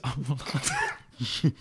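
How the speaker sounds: real helpless laughter; laughing too hard to talk. Real, not acted. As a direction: crack up at the memory. Laughing at the wild story.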